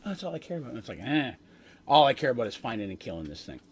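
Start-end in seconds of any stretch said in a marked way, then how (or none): 0.1-0.7 bright, breezy take; upbeat light take. Shown as a demonstration. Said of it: "not like". 1.0-3.6 grudging, dismissive tone; dismissive negative take. Shown as a demonstration. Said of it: "in the negative way".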